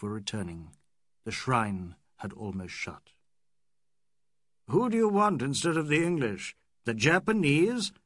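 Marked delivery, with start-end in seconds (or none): 4.7-7.9 jeering. Acted. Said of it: "jeered Fielding".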